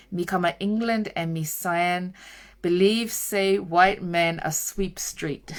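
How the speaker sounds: a weak, half-hearted Jamaican patois read; bad Jamaican accent. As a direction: attempt the uncle's Jamaican patois and don't quite land it. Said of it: "I can't do the accent".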